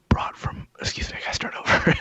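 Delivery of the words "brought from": lightly sultry ad read; commercial voice. Pretend. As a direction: read it like a smooth product spot. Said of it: "No, it's my commercial voice".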